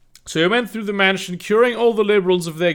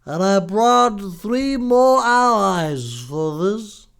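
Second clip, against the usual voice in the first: God voice; slower than usual. Acted. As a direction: play God as a lazy New Jersey guy. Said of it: "God said".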